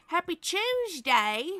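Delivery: drawn out, lifted Happy Tuesday; cheerfully correcting the greeting for a viewer in Australia; cheerful correction. Shown as a demonstration. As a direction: correct it brightly, stretching Tuesday.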